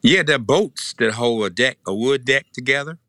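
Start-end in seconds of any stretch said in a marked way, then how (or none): 0.0-1.8 Tennessee accent. Real, not acted. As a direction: say bolts as boats, Tennessee style. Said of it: "that's my Tennessee accent".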